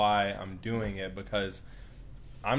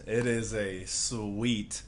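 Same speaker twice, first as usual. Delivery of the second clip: savoring; much slower than usual. Real, not acted. Savoring memory of acceptance.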